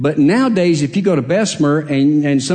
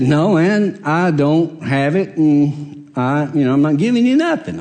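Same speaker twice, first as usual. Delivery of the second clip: firmer, slower refusal; a mildly stern no to a pushy guy; more stringent; slower than usual. Retold or imitated. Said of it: "my voice got a little bit more stringent".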